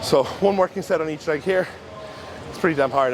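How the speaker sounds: breathless after heavy lifting; puffing between phrases; out of breath. Real, not acted. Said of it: "I'm still a bit out of breath".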